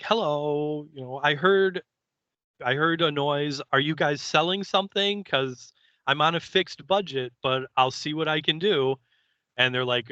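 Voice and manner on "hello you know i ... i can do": lightly voiced sweet little old lady, pitched up; a hint of a chirpy old lady. Old lady answering the door to the visitors, lightly voiced and higher. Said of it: "she's all like".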